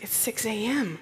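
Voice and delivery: whispered in mock disbelief; disbelieving whisper. To the stewardess offering tea, a disbelieving whisper. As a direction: hush it like it's absurdly early. Incredulous reply to early tea.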